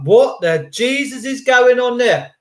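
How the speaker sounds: hammed-up disbelief; mock baffled waiter. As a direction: waiter gobsmacked at the order. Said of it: "He'd be like".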